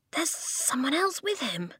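a wary twin, voiced high; wary boy voice. Twin warns of a stranger.

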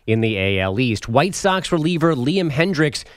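measured radio score recap; sports news read. Acted. Update anchor giving listeners the baseball scores, news read. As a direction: land each number like an update anchor.

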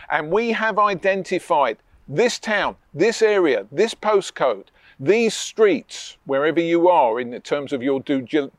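a touch of a polished sales pitch; confident pitch demo. Shown as a demonstration. Coach to estate agent, modelling a confident investor pitch. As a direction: say it like a seasoned investor. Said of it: "Here's what you say".

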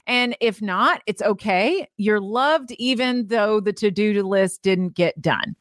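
gentle self-comfort after the cheering; reassuring. Acted. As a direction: ease down into kind reassurance. Reassuring herself, gentler inner voice.

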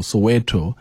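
"Soweto" said so-WEH-toh; correct Soweto pronunciation. Shown as a demonstration. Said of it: "my understanding is it's".

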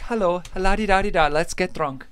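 soft, twinkly Irish lilt; sing-song mock Irish, light as a leprechaun; leprechaun Irish accent. Shown as a demonstration. Host illustrating how the Irish sound, twinkly leprechaun accent. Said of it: "soft, twinkly, like, leprechaun accent".

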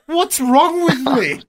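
a touch of mock dismay; incredulous. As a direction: ask it in mock dismay at yourself. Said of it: "And I was like".

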